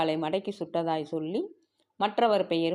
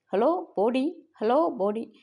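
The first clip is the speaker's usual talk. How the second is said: higher-pitched hail over the wireless; radio call; 5 semitones higher, slower than usual. Acted. Officer hailing Bodi on the wireless, calling out. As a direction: call up the station, first hail drawn out.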